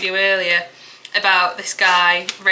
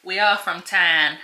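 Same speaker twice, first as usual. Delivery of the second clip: slow broad Yorkshire reading; mild Yorkshire accent, slow; slower than usual. Acted. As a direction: lean into the Yorkshire vowels. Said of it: "What's that accent?".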